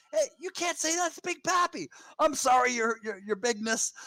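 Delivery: high, hammed-up Big Papi voice; David Ortiz voice. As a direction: boom it out like a Boston sports hero. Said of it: "David Ortiz".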